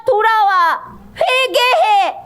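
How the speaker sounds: high, drawn-out plea to return; impassioned call to repent; God's urgent call. Acted. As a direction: cry out slowly, stretching each word. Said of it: "하나님은 그래요".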